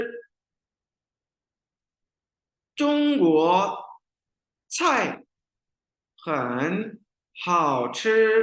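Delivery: 中国 菜 很 好吃 read very slowly, each word apart; slow tone drill. Shown as a demonstration. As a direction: break 中国菜很好吃 into slow single words. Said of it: "पढ़ते हैं".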